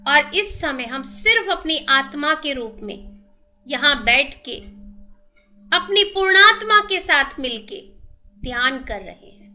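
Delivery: measured meditation guide with long pauses; steady, even-toned breathing instructions; guided meditation. Real, not acted.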